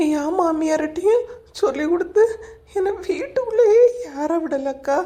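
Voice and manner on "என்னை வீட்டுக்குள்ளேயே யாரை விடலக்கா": tearful complaint with audible sobs; crying. Acted. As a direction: weep through the words to your friend. Thrown out of house, crying. (அழுதுகொண்டே)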